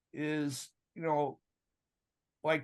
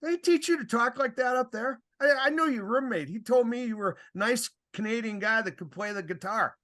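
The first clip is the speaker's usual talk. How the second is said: higher, teasing disbelief; mock indignant; 6 semitones higher than usual. Referee to coach, teasing back over swearing: higher mock indignation. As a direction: needle him with a raised, mocking voice. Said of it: "I turned, I said".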